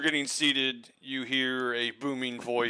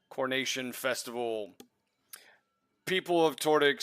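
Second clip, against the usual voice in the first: grand royal herald proclamation; herald announcement. Acted. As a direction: proclaim it to the crowd.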